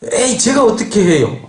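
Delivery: acted-out whiny objection; grumbling refusal. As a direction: push the task away in protest. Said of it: "하나님 앞에 막 원망하면서".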